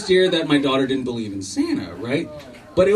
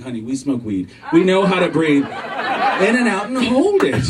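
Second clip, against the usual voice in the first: deadpan punchline; 5 semitones higher than usual. Retold or imitated. Punchline retort to wife.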